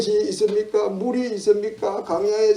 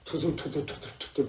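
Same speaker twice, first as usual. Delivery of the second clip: soft imitation of muttered complaint; grumbling; 2 semitones lower, 11 dB quieter than usual. Shown as a demonstration. Preacher imitates complainers for congregation, quiet grumbling. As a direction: grumble it quietly, syllable after syllable. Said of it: "불평하고 원망하고".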